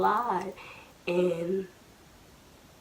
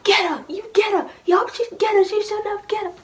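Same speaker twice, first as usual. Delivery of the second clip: high, loud mock egging-on; grandmother hyping; 12 semitones higher, 8 dB louder than usual. Grandmother hyping up the beating, loud egging-on. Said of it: "Hyping it up".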